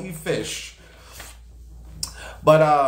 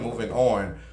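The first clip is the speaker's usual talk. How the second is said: winding-down dismissal; 3 semitones lower than usual. Pretend. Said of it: "Look, bitch".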